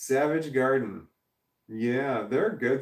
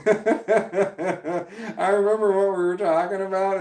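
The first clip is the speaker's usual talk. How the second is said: speaking through laughter; giggly, slower line; laughing; 7 semitones higher, 3 dB louder, slower than usual. Real, not acted. Laughing recalling joke.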